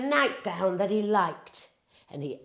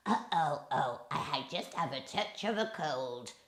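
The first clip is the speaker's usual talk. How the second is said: squeaking wolf; 4 semitones lower, 8 dB quieter than usual. A narrator's reading. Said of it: "squeaked the wolf".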